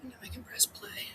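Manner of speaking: whisper. Real, not acted. Whispering to self before clip.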